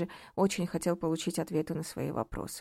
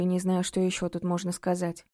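ordinary delivery

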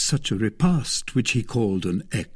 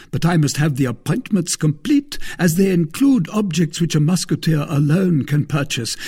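a higher, louder voice for the smug musketeer; Porthos, self-satisfied; 7 semitones higher, 6 dB louder than usual. Acted. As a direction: play Porthos, pleased with his own scheme. Porthos quoted in the story.

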